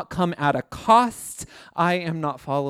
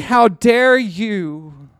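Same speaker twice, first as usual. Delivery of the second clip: how dare you, louder and slow; Jesus to the elders, calling out louder; loud slow rebuke; 5 semitones higher, 7 dB louder, much slower than usual. Acted. Jesus calling out the rich elders, a loud slow rebuke. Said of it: "He was saying".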